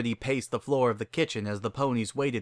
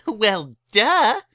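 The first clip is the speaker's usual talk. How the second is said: higher, louder mock-smug duh; 11 semitones higher, 7 dB louder than usual. Pinkie shrugs off Rarity's praise, smug. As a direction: toss it off, obviously.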